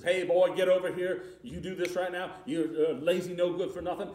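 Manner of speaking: loud barking master's commands; harsh old master. Retold or imitated. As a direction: bark it like a cruel overseer. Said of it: "the old master comes up to the fence and says".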